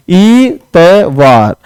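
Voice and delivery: ईतवार said very slowly, vowel drawn out; stretched spelling demo. Shown as a demonstration. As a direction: drag out ईतवार to show the spelling. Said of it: "इतवार ऐसे लिखते हैं". (ईतवार को बहुत धीरे खींचकर)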